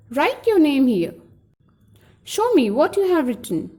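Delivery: commands with pitch dropping on "here" and "written"; falling intonation. Shown as a demonstration. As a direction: let "here" and "written" fall away at the end. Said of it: "There is a fall of pitch in end of the sentence".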